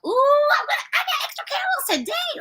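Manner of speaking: put-on very high, gleeful little-kid squeal; squealing with joy. Child squealing to dad about extra caramels, overjoyed. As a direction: squeal like a kid who just got extra candy. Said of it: "I was so happy, so excited".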